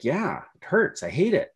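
a light mock of a sulky kid; whiny child. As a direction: play the upset little girl, whining. Voicing crying daughter after ski school.

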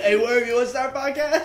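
high squeaky worm voice, laughing; a silly little worm talking. Pretend. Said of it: "That's what worms sound like?".

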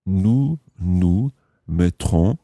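slow, careful French, rising at end; slow model phrase. Shown as a demonstration. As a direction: stretch it out for learners to repeat. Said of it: "putting this into the future tense".

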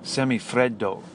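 slow, hammed-up Italian accent on Semifreddo, open e as in "fredo"; mock Italian accent. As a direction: say Semifreddo like a proud Italian chef, in a light Italian accent. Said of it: "I'll give you my best Italian accent".

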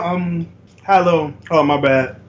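talking while eating chips; chewing chips between words; mouth full. Real, not acted. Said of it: "Eating chips".

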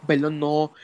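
just choked, clearing throat; choking. Real, not acted. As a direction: talk right after choking on a drink. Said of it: "me ahogué".

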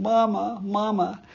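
put-on girl crying for her mother as the wolf lunges; frightened cry. A narrator's reading. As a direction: cry out for mamma, mildly scared.

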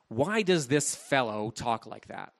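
mild contempt in a quoted question; a touch of scorn for this fellow; contemptuous. Acted. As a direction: voice the scribes' disdainful question, understated. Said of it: "Notice that tone of contempt".

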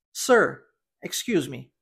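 "Sir, excuse me" said clearly, pausing after "Sir"; model pronunciation. Shown as a demonstration. Teacher giving learners a phrase to repeat, clear model "Sir, excuse me". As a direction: model "Sir, excuse me" for repetition, falling at the end. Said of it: "Eu vou falar a frase e você repita".

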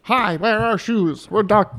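mock German accent. Friend jokingly voicing Doc Martens as German, mock German accent. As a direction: greet customers in a hammy German accent. Acting a German shoe-brand greeting.

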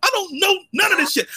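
yelling in frustration; fed-up rant at full volume; angry shout. Real, not acted. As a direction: blow up at them. Ranting about Star Wars lore.

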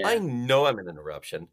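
"know" hit hard and flat; firm stress on "know"; hammering know. Shown as a demonstration. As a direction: lean hard on "know" and state it plainly. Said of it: "hammering the word no".

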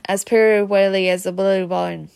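plain reading voice

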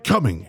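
drawn-out "Coming," hanging in the air; dramatic pause. Shown as a demonstration. Showing the friend Splinter's pause, drawn out. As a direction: hold "Coming," then leave it hanging. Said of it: "a three-second pause".

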